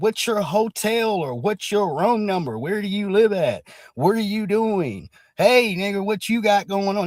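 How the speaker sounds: lightly voiced nosy busybody questions; nosy interrogating neighbour. Mocking nosy white questioning.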